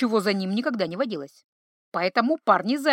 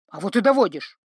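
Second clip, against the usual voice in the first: louder, bickering retort; shouting match; 3 dB louder than usual. A narrator's reading. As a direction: fire back in a squabble. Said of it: "перекрыл их перебранку".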